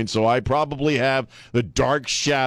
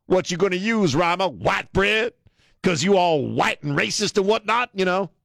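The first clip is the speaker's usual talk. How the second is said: lightly put-on 1970s street swagger, higher; mock 1970s street voice; 6 semitones higher than usual. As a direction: jive it up like a seventies cool guy, half-joking. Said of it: "I'm gonna talk like a, like a black guy from the nineteen seventies".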